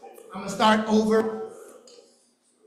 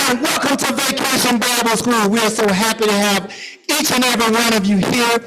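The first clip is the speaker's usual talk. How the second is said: a hint of a peppy costume character; Vinny the Vine; slower than usual. Vinny greeting the Bible School kids, lightly put-on cheery voice. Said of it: "My name is Vinny, the Vine".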